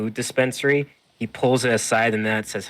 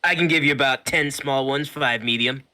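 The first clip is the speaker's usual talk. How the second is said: high, loud merchant voice; eager shopkeeper, pitched way up; 6 semitones higher, 5 dB louder than usual. Acted. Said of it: "And he says".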